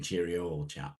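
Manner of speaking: lightly voiced mock posh Englishman; a hint of a forties toff greeting; old-fashioned posh Brit. Joking about British stereotypes, a light mock posh Englishman. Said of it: "I could walk around saying".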